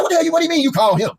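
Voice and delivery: high-pitched comic outrage; indignant disbelief. Retold or imitated. Husband confronting wife on the phone, acted indignation. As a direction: act out an incredulous challenge.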